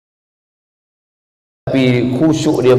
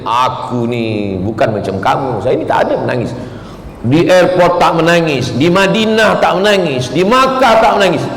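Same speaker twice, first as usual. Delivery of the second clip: put-on proud old man; 2 semitones higher than usual. Old man boasting he never cries.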